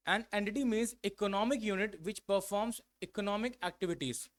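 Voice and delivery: reads the definition very slowly, word by word; slow dictation. Shown as a demonstration. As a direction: dictate each word for the class to copy.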